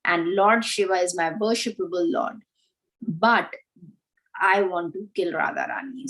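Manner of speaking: lightly voiced snake, a little low and measured; a hint of a solemn snake. Snake announcing itself as Lord Shiva's servant, lightly voiced snake. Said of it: "the snake says".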